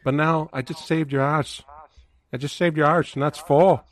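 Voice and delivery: light impression of the movie's coach; lightly put-on accent, quoting the coach; a hint of an accented movie coach. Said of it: "You gotta use that accent".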